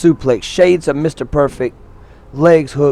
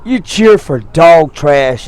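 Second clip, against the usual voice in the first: retold yell; 5 semitones higher than usual. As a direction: shout it down at a fan. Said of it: "he just yelled at the lady".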